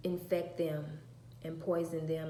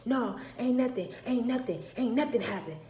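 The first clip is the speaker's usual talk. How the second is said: put-on curt, louder, higher sulky teen; sulky denial; 5 semitones higher, 4 dB louder than usual. Daughter denying anything is wrong, sulky. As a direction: snap it out defensively.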